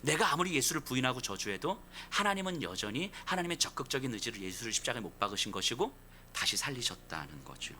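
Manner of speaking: usual speaking voice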